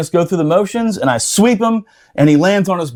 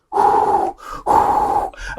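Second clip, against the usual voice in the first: psyching-up breaths. Retold or imitated. Acting himself getting geared up.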